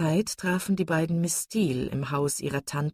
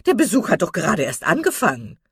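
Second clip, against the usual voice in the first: teasing matron; 2 semitones higher, 8 dB louder than usual. A narrator's reading. Mrs Jennings teasing about the bachelor doctor, loud and knowing. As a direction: needle her merrily.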